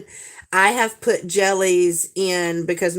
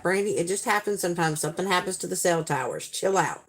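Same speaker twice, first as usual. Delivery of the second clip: quick, softer, unbothered reassurance; mock calming down; 6 dB quieter, faster than usual. Wayne tells Brandy to chill out, imitated calm.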